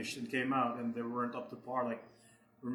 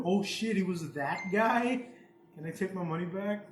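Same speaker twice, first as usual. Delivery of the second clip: slow, high mock dismay; mock backer panic; 4 semitones higher than usual. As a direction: play the duped backer, drawn out. Acting out a duped backer.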